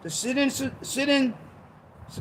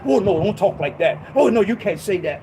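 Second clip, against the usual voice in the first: lower, mock-prim voice of the people who shush you; lightly mocking those who say you can't say that; mocking scolder; 5 semitones lower than usual. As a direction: imitate the disapproving tut-tutters.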